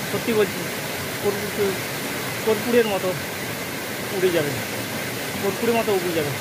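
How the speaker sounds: tired, slurred words; words slurring from exhaustion; slurred speech. Real, not acted. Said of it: "কথা জড়িয়ে যাচ্ছে".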